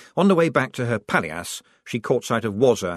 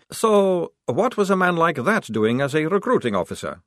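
pointed, higher-pitched challenge; sharp question; 8 semitones higher, 4 dB louder than usual. A narrator's reading. Maledict challenging Scarlett's story, sharply. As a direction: cut in sharply to catch him out. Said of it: "said Maledict sharply".

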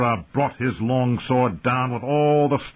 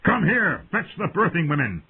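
raised, furious command; roared order; 7 semitones higher than usual. A narrator's reading. Knight demanding midwives for Dany, roared. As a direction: bellow it urgently at a servant. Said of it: "Ser Jorah roared".

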